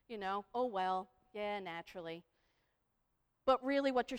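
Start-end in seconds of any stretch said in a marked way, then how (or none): 0.5-2.2 resigned agreement. Acted. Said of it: "they go".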